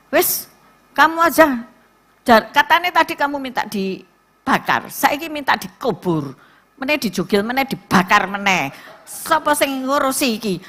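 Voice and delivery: fed-up sister snapping back; exasperated retort. Retold or imitated. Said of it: "Terus aku bilang gini".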